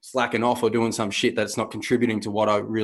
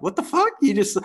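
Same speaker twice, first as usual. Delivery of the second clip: very high incredulous squeal; shocked reaction; 11 semitones higher than usual. Retold or imitated. People hearing the boss is in the bath, mock shock. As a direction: shriek it in mock disbelief. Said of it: "and they're like".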